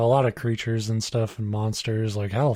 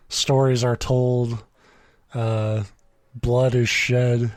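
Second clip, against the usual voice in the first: dramatic podcast intro; slower than usual. Acted. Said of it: "That's the introduction".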